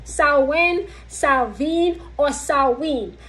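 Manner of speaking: "Samhain" said SOW-win, then SOW-vin, then SOW-win again; "Samhain" run through its variants, the middle one with a v; three pronunciations. Shown as a demonstration. Listing the three accepted ways to say "Samhain" for viewers. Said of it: "Samhain has three pronunciations".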